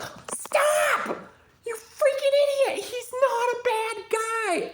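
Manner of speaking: grito agudo y desesperado, casi llorando. Retold or imitated. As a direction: chilla para detener al padre. Julie defends R from father.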